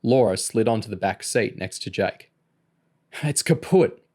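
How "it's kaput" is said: mild shout, pitched up. A narrator's reading. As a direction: call out that it's broken. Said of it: "Bruce shouted".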